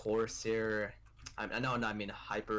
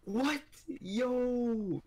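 high, excited yelp; shocked; 12 semitones higher than usual. Real, not acted. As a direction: squeal with disbelief. Friend agrees to trade.

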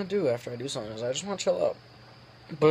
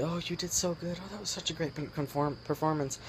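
imitated congratulations; 3 semitones higher, 5 dB quieter than usual. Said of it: "congratulating me for things, telling me".

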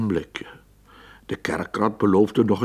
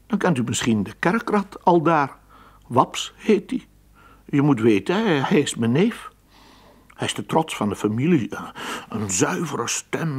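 lightly raised, eager rat voice; chatty acquaintance rat; 4 semitones higher than usual. Acted. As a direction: gush a little about the proud family cousin. Acquaintance talks about his cousin.

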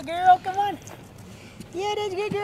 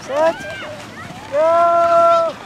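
sledding downhill; 3 semitones higher, 3 dB louder, much slower than usual. Real, not acted. Countdown before sledding downhill.

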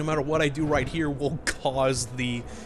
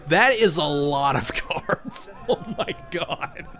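laughing; 4 semitones higher, 3 dB louder, slower than usual. Real, not acted. Laughing at the pile of cards.

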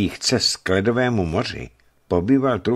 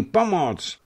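high call trailing off in volume; fading cry for help; 12 semitones higher than usual. Acted. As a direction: let the final shout tire out. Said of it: "hlasitě křičel".

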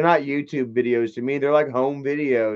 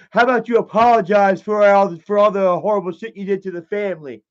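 mimicking Michael as Dad; 4 semitones higher, 5 dB louder than usual. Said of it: "Michael don't talk like Dad".

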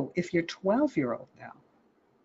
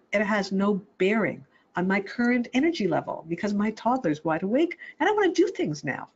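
lightly voiced toddler, a bit higher and eager; inner toddler voice; 5 semitones higher than usual. Toddler brushing off a parent's logic, lightly higher. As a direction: play the toddler who won't hear it, lightly. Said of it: "It's like".

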